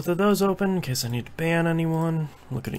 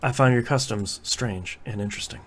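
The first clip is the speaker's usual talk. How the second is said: alien voice; 3 semitones lower, 5 dB quieter than usual. Acted. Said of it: "I'm certainly not an alien".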